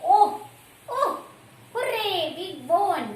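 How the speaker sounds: teacher acts out a team's victory cheer; joyful cheer. Shown as a demonstration. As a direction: celebrate a win out loud. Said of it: "we use some words like".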